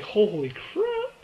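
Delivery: slow it down like you can't believe what you heard; stunned reaction. Retold or imitated. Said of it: "And I'm just like".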